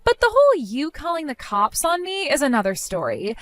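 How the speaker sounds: lightly voiced catty sister, gloating; mocking sister-in-law. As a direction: taunt her like a smug rival. Sister-in-law taunts injured bride.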